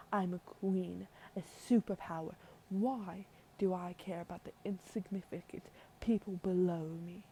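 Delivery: put-on haughty queen in a British accent; British-accented queen, asserting rank. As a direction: put on an amateur British royal voice. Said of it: "I felt like giving her a British accent".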